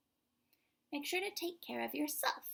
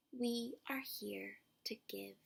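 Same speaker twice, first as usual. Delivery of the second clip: slow, softer whispered promise; 5 dB quieter, slower than usual. Acted. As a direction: breathe the words gently, slowly. Boy's line ends softly.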